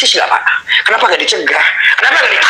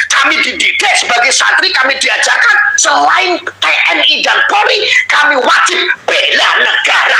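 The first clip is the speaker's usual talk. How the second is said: crying out; 5 semitones higher than usual. Real, not acted. Pleading to police, voice breaking.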